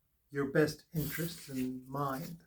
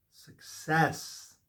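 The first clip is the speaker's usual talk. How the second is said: a breathy whisper of the word. Acted. Tarot reader whispering the card's meaning to the viewer. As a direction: whisper it like a secret blessing. Repeats card name, first take.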